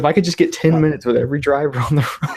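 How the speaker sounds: laughing through the words. Retold or imitated. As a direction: chuckle as you say it. Laughing while quoting himself.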